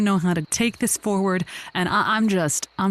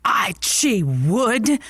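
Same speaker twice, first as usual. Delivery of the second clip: seething whisper; much slower than usual. Acted. Seething realisation.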